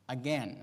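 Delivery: "again" set apart after a pause, with a falling tone; stress on again. Real, not acted. Preacher underlining a recurring theme, stress on "again". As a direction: land "again." on its own, deliberately. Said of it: "I emphasize the word again".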